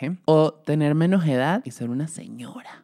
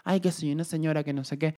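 mock whiny complaining; 8 dB quieter than usual. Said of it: "anda quejándose con que".

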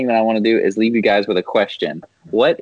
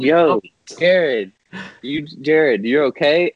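checking on friend; 4 semitones higher, slower than usual. Retold or imitated. Retold checking on slumped friend.

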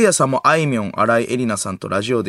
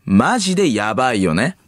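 drawn-out conspiracy-teller cadence; 関明夫 impression; slower than usual. Naming three suspects to the listeners, theatrical impression. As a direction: spell out each name like a grave revelation. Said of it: "まだ関明夫やってた".

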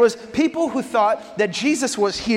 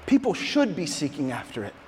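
earnest Jesus; 3 semitones lower than usual. Retold or imitated. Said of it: "Jesus would say".

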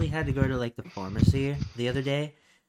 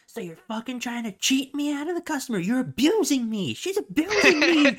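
very high, hammed-up outraged customer, getting louder; mock yelling; 8 dB louder than usual. Customer accuses pharmacist of cheating and abuse, mock yelling. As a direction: build to a screechy, accusing mock yell. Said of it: "And just starts yelling".

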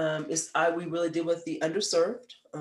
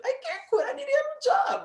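much higher, a crying whine; tearful high wail. Retold or imitated. Refusing her husband's advice to quit, high crying whine. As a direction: plead through tears. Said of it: "I cried".

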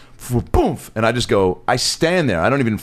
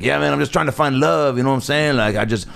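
in character; 3 semitones higher than usual. Retold or imitated. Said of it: "I was in character".

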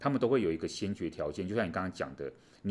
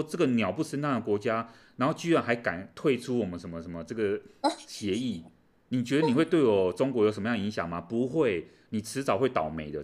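louder scornful mock threat; mock cursing; 3 semitones higher, 3 dB louder than usual. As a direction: spit out the contempt. Voicing China cursing Lithuania.

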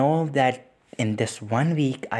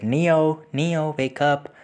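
calling her name; 5 semitones higher, 4 dB louder, much slower than usual. Retold or imitated. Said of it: "I said".

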